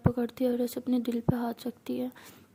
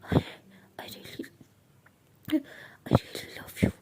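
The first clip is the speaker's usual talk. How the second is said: put-on drunk slurring; much slower than usual. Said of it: "Meera नशे में".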